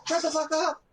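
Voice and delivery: high, loud furious yell at dog; angry shout. Real, not acted. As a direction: bellow it to silence the dog. Yelling at barking dog.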